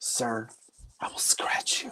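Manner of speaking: loud stage whisper carrying across the room. Retelling a line said to a big guy in the front row: loud whisper. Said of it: "And I'll just whisper it, you know, like, but loud".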